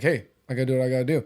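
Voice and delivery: a hint of a stoic king; lightly voiced tough warrior. Quoting the Spartan king.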